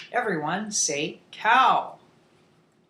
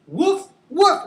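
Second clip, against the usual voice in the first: spoken barks, second pitched up; dog woof; 10 semitones higher, 4 dB louder than usual. Shown as a demonstration. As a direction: imitate a dog for young learners. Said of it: "you make the sound".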